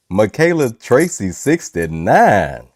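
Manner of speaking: slow, drawn-out late-night host; midnight voice. Pretend. Host repeating a viewer's name for fun, in a slow put-on midnight voice. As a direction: playfully stretch out the name, mock-sultry. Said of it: "I can't be talking like that".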